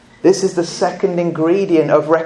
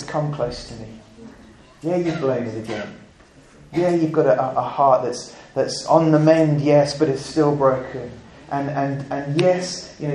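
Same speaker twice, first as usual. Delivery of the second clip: much softer, gentle and reassuring; almost confide it, like comforting a friend who failed; tender hushed invitation; 2 semitones lower, 6 dB quieter than usual. Acted. Preacher voicing Jesus forgiving a weak believer, softly.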